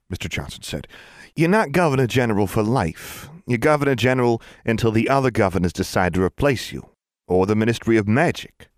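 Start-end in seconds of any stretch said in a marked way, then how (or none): 1.4-8.7 self-satisfied official, a little higher; smugly. Acted. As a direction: say it as a smug threat. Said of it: "he added smugly".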